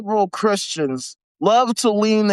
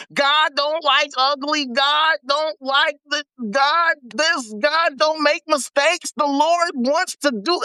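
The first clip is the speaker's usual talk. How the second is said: higher, preachy mock uncle; 7 semitones higher than usual. Mocking his religious uncle to viewers, in a higher voice. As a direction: parrot his uncle's sayings. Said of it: "started blabbering off all this".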